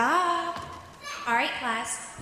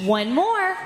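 laughing; 6 semitones higher, 5 dB louder than usual. Real, not acted. Teacher laughing, coaxing kids.

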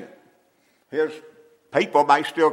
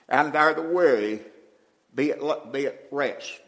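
scripture reading. Acted. Reads scripture, fading softly.

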